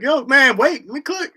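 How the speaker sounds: loud, high cut-in; comic outburst at a groggy caller; mock exasperated interruption.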